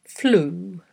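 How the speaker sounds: drawn-out word, carefully dictated; slow dictation. Shown as a demonstration. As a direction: read it out slowly, pausing long between repeats. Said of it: "read ten words aloud slowly".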